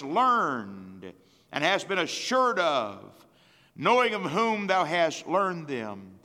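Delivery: slow, measured King James reading; preacher reading Timothy to the church; solemn scripture reading. Acted. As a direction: read it slow and weighty.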